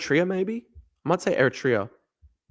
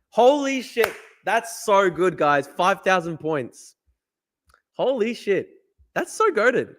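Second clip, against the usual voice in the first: excited; 5 semitones higher, much slower than usual. Real, not acted. Seeing the five thousand points.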